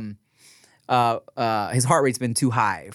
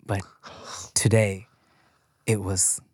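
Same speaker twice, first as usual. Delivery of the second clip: corny movie quote; 5 semitones lower, 4 dB quieter than usual. Retold or imitated. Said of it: "what kind of fucking corny Lifetime movie quote".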